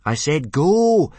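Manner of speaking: slow, loud, exasperated repeat; frustrated shout. Acted. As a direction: spell it out, losing patience. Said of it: "Hiccup repeated in frustration".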